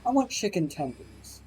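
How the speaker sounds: quiet, flat stubborn repeat; soft stubborn kid. Retold or imitated. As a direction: dig in quietly. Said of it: "And he's like".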